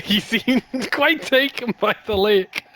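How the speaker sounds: a hint of the put-on adventurer, slipping back; fading character voice. Gamer reading game dialogue in fading accent. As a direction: keep the knight voice lightly, letting it fade. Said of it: "I've lost the accent entirely".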